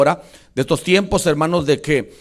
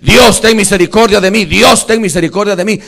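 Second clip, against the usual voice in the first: loud, relentless reenacted pleading; preacher shouting out a beggar's prayer; imploring God; 5 semitones higher, 10 dB louder than usual. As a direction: beg at full voice without letting up. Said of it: "le estaba diciendo".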